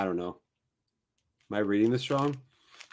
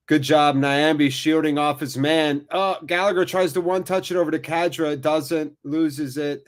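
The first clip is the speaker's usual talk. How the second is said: lively soccer commentary, raised a little; live play-by-play; 4 semitones higher, 4 dB louder than usual. Real, not acted. Commentator to viewers as Gallagher loses it, lively play-by-play. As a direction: call the action as it happens.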